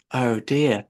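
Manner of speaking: slow, sorrowful little lament; Alice realizing she offended the mouse, slow and sorry. Acted. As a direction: let it sink with slow regret. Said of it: "cried Alice in a sorrowful tone".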